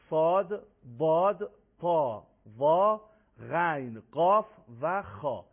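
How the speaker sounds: heavy Arabic letters, spaced out; slow, deliberate, full-mouthed letter names; heavy articulation. Shown as a demonstration.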